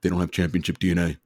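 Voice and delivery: light super-baritone impression, briskly delivered; a hint of a deep baritone voice; Shaq. Telling Gerard off about championship DNA, lightly imitated deep voice. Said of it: "in, like, his super baritone, deep voice".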